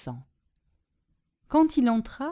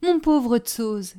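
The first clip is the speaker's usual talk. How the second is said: slow, tender sympathy; moved, pitying voice; 5 semitones higher, 7 dB louder, slower than usual. A narrator's reading. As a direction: console a friend, drawing it out. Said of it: "dit Prudence attendrie".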